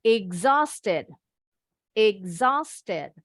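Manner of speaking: exhausted with the middle HAUS lifted. Shown as a demonstration. Teacher showing stress marks, exhausted stressed on the middle syllable. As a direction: stress exhausted as "ig-ZOS-ted". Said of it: "bacanya intonasinya lebih tinggi".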